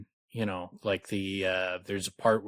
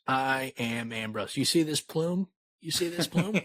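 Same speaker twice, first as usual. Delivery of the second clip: pompous Ambrose; 4 semitones higher than usual. Retold or imitated. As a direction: show off the plume, preening. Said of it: "Ambrose, just say".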